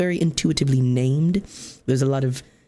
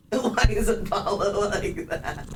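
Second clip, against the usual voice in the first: pet-talk voice; 6 semitones higher, slower than usual. Real, not acted. Talking about the cat.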